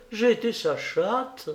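high-pitched, insistent lament; stubborn old lady. A narrator's reading. Madame Dor clings to her idea, high and insistent. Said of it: "Puis revenant à son idée".

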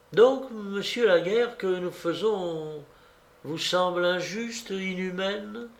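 high voice softening at the end; close, coaxing question. A narrator's reading. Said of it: "Elle lui disait cela de tout près". (question câline, toute proche)

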